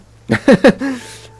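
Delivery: short, high-pitched laugh; quick high chuckle. Real, not acted. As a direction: burst into a brief laugh. Streamer chuckles at own remark.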